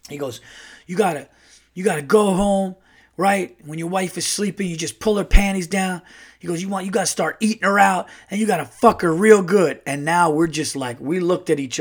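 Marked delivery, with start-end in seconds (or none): 0.9-6.0 higher-pitched brash storyteller; lightly voiced brash uncle; Earl. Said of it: "from a man named Earl". 6.6-9.8 higher-pitched brash advice-giver; lightly voiced brash guy; Earl. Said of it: "from a man named Earl".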